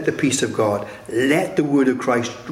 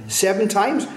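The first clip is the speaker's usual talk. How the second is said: higher-pitched questioning offer; hopeful question; 7 semitones higher than usual. Retold or imitated. Peter suggesting a number to Jesus, hopeful question. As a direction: ask it high, as a proud suggestion.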